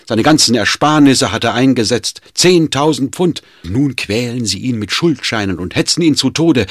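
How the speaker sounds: loud, high, fast bitter tirade; distraught outburst. Acted. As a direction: rail against them in despair. Servant rails at master's tormentors.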